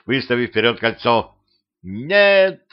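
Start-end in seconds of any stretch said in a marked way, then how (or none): 1.8-2.6 high, drawn cry of alarm. A narrator's reading. Vampire girl rushing at Petrovich, crying out. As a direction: voice leaping up to stop him. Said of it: "крикнула девчонка".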